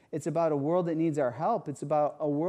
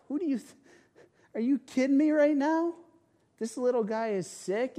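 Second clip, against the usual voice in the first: much higher and louder, incredulous rebuke; indignant outburst; 11 semitones higher, 4 dB louder than usual. Pretend. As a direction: let it burst out at the swearing man in disbelief. Imagined rebuke of the angry man.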